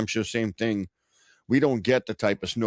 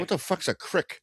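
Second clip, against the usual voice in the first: mock confusion; 8 semitones higher, 3 dB quieter than usual. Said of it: "I said".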